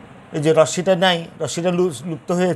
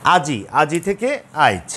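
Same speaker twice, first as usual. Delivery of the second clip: slow demo. Shown as a demonstration. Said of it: "যেমন দেখো".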